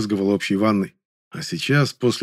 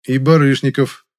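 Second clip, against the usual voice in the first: louder, slow, deliberate addition; 4 semitones higher, 6 dB louder than usual. A narrator's reading. Hero adding a name loudly, slow and pointed. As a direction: say it loud so she hears. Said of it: "громко дополнил я".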